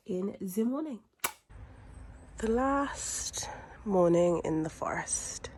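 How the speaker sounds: slow soft whisper. Real, not acted. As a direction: whisper it slowly, drawn out. Slow unvoiced morning line.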